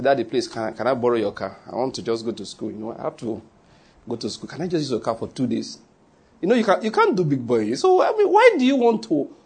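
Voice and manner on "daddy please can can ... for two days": put-on child begging father.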